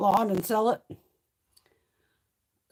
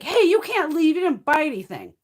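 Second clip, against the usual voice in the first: mock-joking call; 8 semitones higher, 6 dB louder than usual. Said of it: "the guy's like".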